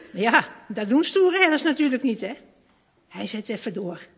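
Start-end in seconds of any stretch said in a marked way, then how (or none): none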